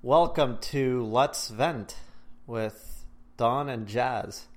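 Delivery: show intro. Acted. Podcast intro announcement.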